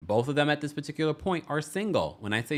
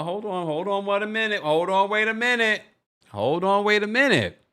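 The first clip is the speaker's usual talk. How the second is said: sudden halt; 7 semitones higher, 4 dB louder than usual. Real, not acted. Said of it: "suddenly stops herself".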